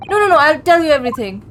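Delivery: panicked pleading. Acted. Voicing suspect giving in to threat.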